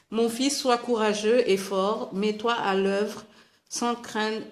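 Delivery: Bible verse read aloud with conviction; firm, deliberate reading of a sacred text; scripture reading. Real, not acted. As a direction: read it out as an encouraging charge from scripture. Reads a Bible passage aloud.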